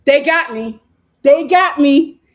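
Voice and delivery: hammed-up smitten gush; giddy mock swoon. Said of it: "K C is sitting there like".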